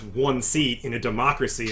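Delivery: slow, scornful scoff on democracy. Acted. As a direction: sneer at the word democracy. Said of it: "she scoffs at the word democracy".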